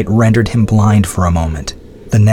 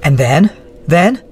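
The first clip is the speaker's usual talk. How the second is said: breathless; 7 semitones higher than usual. Acted. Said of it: "asked Adrienne breathlessly".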